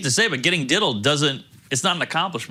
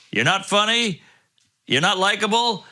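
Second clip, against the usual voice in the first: Irish brogue; 5 semitones higher than usual. Retold or imitated. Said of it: "He said that in, like, an Irish brogue".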